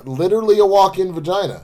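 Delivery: a hint of presidential cadence; Barack. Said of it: "I did not mean to go Barack".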